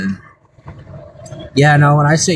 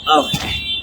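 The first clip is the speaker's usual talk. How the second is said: startled okay. Real, not acted. Startled reaction in game.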